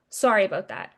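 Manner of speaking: offhand sorry. Retold or imitated. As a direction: toss off "Sorry about that." lightly and falling, a casual brush-off. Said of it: "they call me and they go".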